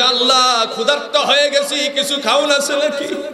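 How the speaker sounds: very high, pleading, begging cry.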